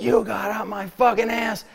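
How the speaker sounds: high, strained mock yell at reduced volume; retold screaming. Driver confronting the man who tailgated him, mock scream. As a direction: act out screaming without full loudness. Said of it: "I started screaming at him".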